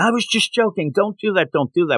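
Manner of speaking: high-pitched, urgent yelling. Retelling a cartoon scene where Bailey panics: imitating Bailey yelling. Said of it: "Bailey yelling".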